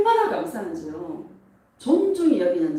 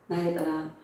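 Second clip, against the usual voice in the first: low, soft voice of divine affirmation; 예수님 음성; 5 semitones lower, 4 dB quieter than usual. Retold or imitated. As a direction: speak gently down to a beloved daughter. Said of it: "예수님의 음성이 들리는 거예요". (나직하고 다정한 예수님의 음성)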